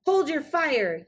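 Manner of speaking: high, loud urgent yell. Acted. Joe Prince yells to stop the fairy godmother shooting, high and loud. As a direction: stop her before she shoots. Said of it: "yelled Joe Prince".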